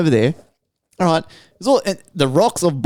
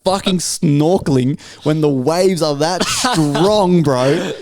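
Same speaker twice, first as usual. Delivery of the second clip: slow incredulous rant; 3 semitones higher, slower than usual. Retold or imitated. Ranting at the swimmers.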